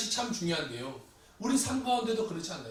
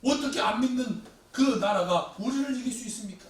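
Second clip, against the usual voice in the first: protesting to God; 3 semitones higher than usual. Acted. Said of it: "하박국은 또 질문이 생겼어요".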